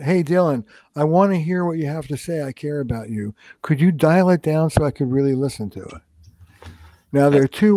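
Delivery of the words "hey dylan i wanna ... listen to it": skilled way. Shown as a demonstration. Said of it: "a more skilled way of saying it".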